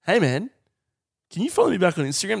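fast, tossed-off stranger asking; quick mock plea for a follow-back; rushed stranger request. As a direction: rattle it off like a pushy stranger. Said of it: "some stranger walked up".

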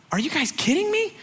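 very high, small incredulous voice; mock-incredulous falsetto; squeaky disbelief. Disbelief at the kids' news.

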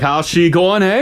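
mock Canadian accent; playful exaggerated North American accent. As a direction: lightly put on a folksy Canadian accent. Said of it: "do they do a North American accent".

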